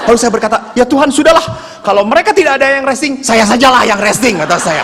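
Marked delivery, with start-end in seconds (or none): 0.7-4.4 mildly raised, hurried retold resignation; weary giving up. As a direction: give up on the prayer with mock exasperation. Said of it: "saya doa makin capek". (pura-pura pasrah karena capek berdoa)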